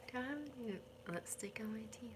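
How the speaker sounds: quick hushed whisper; a real quick aside, breathed out fast. Real, not acted. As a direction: whisper it so the viewers barely hear. Private aside while on camera.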